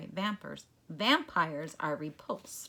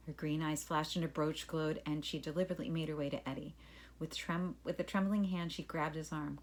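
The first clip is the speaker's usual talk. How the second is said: calm storybook reading voice; story narration. A narrator's reading. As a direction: read it like a class story. Reads story to class.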